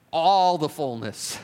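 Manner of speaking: "all" drawn out and leaned on; slow down and land hard on "all"; stress on ALL. Real, not acted. Builds repetition up to key word.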